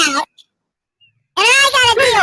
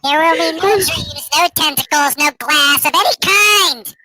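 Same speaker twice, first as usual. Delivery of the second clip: chipmunk voice; slower than usual. Pretend. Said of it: "my chipmunk voice".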